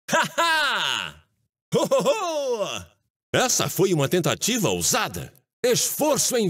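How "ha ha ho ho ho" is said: mock laugh. Mocking laughter.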